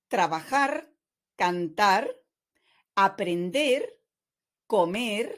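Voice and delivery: "Hablar, viajar, trabajar" and each infinitive stressed on its final syllable; stress on last syllable. Shown as a demonstration. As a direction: read a spaced list, "Hablar" to "recibir", leaning on each last syllable. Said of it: "the stress falls on the last syllable".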